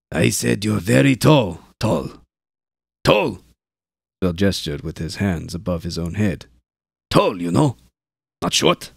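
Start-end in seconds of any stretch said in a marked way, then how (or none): 0.1-3.4 repeats it louder and higher, impatient; raised voice. Acted. Shouting at man who doesn't understand. 7.1-8.9 over-explaining. Acted.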